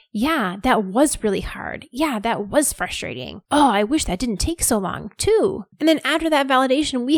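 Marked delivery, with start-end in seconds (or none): 0.1-5.6 validating. Shown as a demonstration. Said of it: "help direct them with our reactions".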